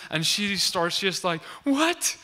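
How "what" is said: much higher, louder shocked what; freaked-out what. Retold or imitated. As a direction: shriek it in disbelief. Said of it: "she freaks out more than anyone".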